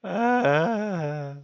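long, high, loud "aah"; exasperated cry. Real, not acted. Player interrupted at the worst moment, exasperated high cry. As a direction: wail out a drawn-out "aah". Interrupted by unwelcome event, cries out laughing.

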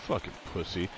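hushed, breathy insult under the breath; retold whisper. A Yankees fan whispering an insult to a Red Sox fan. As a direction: hiss it low like a stranger leaning into an ear. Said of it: "whispered in my ear".

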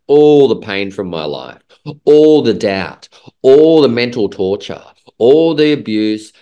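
slow, swelling list of wounds; building emphasis. Real, not acted. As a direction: pound out every item of pain. Listing pain with rising force.

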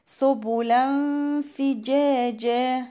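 "سبلا" ending in a held hum before ف; nasal concealment. Shown as a demonstration. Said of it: "هيبقى فيها إخفاء حقيقي".

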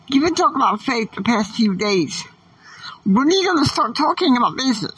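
high whispered prod, fast on the second line; whispered heckle. Pretend. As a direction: hiss a nagging question. Alter ego questions him.

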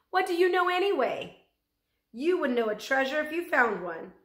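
loud, high indignant yelling; angry yell. A narrator's reading. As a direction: yell at him in outrage. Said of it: "his mother yelled at the big man".

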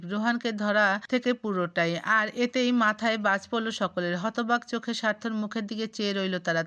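ordinary delivery

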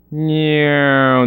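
drawn-out spoken meow; imitated cat meow. Streamer dropping a cat noise into the show, mock meow.

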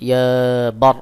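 ইয়া বার with no long alif after the b; short ba. Shown as a demonstration. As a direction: keep বার short, closing straight onto the r. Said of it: "শুধু উচ্চারণ হবে বা".

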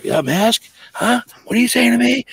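high, loud mock confrontation; retold angry comeback. Kayaker firing back at the yelling stranger, heated and loud. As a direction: snap back at him, pitch climbing high. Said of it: "I go".

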